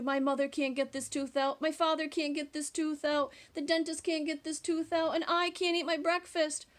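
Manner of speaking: put-on a touch of a sad boy, building; sad child. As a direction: list the troubles mournfully. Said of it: "said Andrew".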